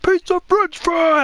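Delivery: high, drawn-out mock shout; loud, high caricature of an instructor; imitated yell. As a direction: holler it slowly, as if down a slope. Retold yell on the slope.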